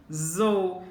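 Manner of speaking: "zou" said alone, firm and drawn out; teacher giving "zou" as a single emphatic syllable; stressed syllable. Shown as a demonstration. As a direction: isolate "zou" as the strong syllable. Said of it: "qual é a sílaba mais forte?".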